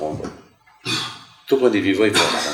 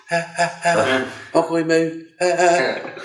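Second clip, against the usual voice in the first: embarrassed wife; 8 semitones higher than usual. Retold or imitated. Wife's embarrassed reaction.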